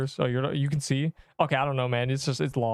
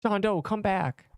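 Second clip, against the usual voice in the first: nerd voice; 6 semitones higher, slower than usual. Acted. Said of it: "Why that voice?".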